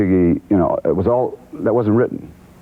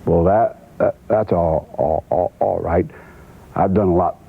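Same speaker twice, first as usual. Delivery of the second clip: imitating Cowboy's stutter. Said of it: "And then Cowboy says".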